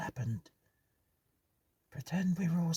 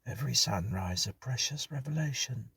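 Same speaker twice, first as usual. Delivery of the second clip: higher, softer, half-whispered; hushed tone; 5 semitones higher, 3 dB quieter than usual. Acted. Hughes to the others after the ghost, hushed. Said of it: "Hughes spoke in a hushed tone".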